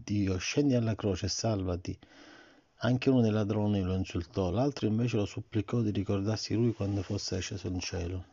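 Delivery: put-on reading to a child. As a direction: read the story gently to the child. Parent reads Bible story. (lettura a un bambino)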